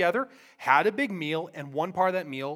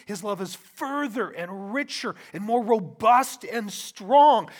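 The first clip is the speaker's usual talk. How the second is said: loud, higher-pitched preaching with punched key words; impassioned preaching; 6 semitones higher, 7 dB louder than usual. Real, not acted. Preacher urging congregation that Jesus' love is greater, impassioned. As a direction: preach it with rising force.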